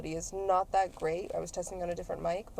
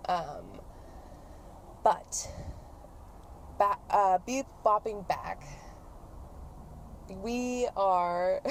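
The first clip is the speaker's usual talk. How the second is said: ordinary delivery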